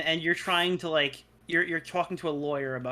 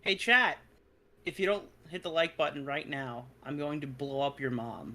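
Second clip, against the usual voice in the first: calm, soft, nice-sounding threat; 3 semitones lower, 4 dB quieter than usual. Pretend. Asked to nicely tell chat to hit like, nice tone. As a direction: keep it sweet and quiet while threatening. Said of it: "in a nice way".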